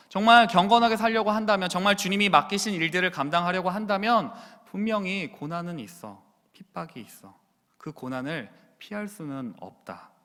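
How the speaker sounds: Paul telling Timothy hardship will come, rising then fading; Paul warning. Acted. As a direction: build the warning, then drop to a hush. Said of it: "사랑하는 아들 디모데야".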